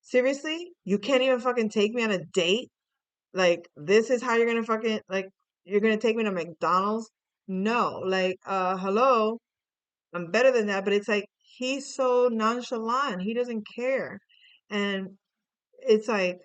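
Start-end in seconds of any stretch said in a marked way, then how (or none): 0.0-10.8 lightly acted teenage outrage, louder than usual; mock indignation with loud, emphatic punches; indignant teenage girl. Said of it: "young teenage girls".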